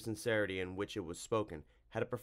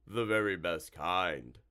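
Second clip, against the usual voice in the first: slow creature voice; relishing monster; 3 semitones lower, slower than usual. Acted. Monster savoring dead fish, slowly relishing. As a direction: drag the words out with appetite.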